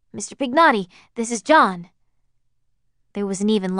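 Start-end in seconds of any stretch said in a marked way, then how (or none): 0.1-1.9 forced cheer, higher and brighter; artificial enthusiasm. Acted. John phoning the old man he wronged, forced enthusiasm. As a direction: put on a fake cheerful phone voice. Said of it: "the artificial enthusiasm John had put into his voice".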